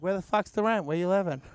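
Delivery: a hint of a gruff Boston landlord. Boston landlord demanding rent from tenant, gruff. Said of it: "In Boston, like".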